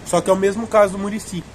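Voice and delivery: speaking between bites; chewing cold ice cream; mouth full of popsicle. Real, not acted. Seen 4: Popsicle at his lips, biting it repeatedly while speaking.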